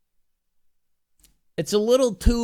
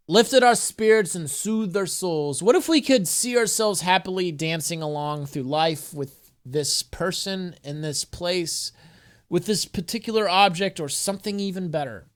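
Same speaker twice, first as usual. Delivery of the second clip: earnest inspirational read-aloud; affirmation reading. Acted. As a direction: read it like an uplifting oracle card. Reads affirmation card aloud.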